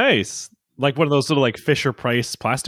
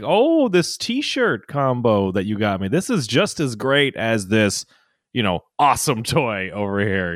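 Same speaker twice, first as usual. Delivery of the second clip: fake gratitude. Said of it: "start learning to fake".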